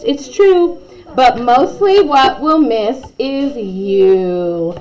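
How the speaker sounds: sing-song rhyming read-aloud; poem reading. A narrator's reading. Narrator reading the class's farewell poem, sing-song. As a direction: read the poem to the kids gently.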